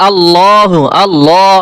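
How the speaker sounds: আল্লাহু, আল্লাহ with a dark, thick 'law'; heavy lam. Shown as a demonstration. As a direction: make the L in আল্লাহ heavy and full. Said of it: "ল, মোটা হয়েছে".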